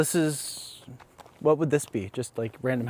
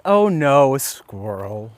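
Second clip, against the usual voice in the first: sad voice; 5 dB louder, much slower than usual. Shown as a demonstration. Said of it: "say squirrel in a sad voice".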